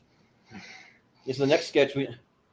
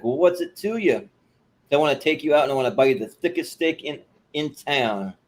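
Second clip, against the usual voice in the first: Southern redneck; 3 semitones higher, 3 dB louder than usual. Retold or imitated. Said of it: "totally Southern redneck".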